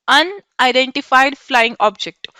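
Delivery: slow teacher. Shown as a demonstration. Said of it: "teacher spells out full form".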